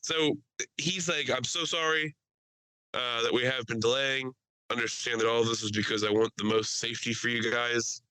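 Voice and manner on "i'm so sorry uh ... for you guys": lightly imitated South African pilot apology; South African accent. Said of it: "extremely thick South African accent".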